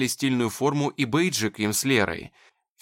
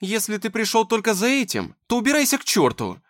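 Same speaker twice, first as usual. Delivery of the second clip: higher, louder angry outburst; furious; 9 semitones higher, 4 dB louder than usual. Acted. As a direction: throw him out in a rage. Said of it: "её захватывает ярость".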